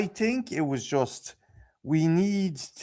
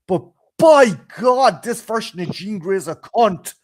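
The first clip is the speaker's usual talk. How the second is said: angry rant; 4 semitones higher, 7 dB louder than usual. Real, not acted. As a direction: let the fury out on by God. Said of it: "I'm sorry. I had to say it".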